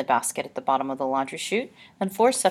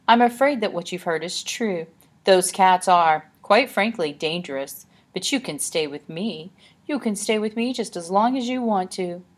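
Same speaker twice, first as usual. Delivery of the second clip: reassuring lady voice; 4 semitones higher, 4 dB louder than usual. Acted. Annabelle reassures Olive.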